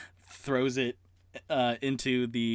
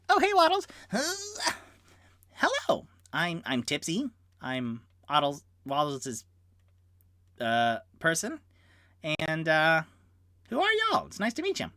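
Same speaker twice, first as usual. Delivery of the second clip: high friendly gnome voice; 5 semitones higher than usual. Acted. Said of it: "So he will go".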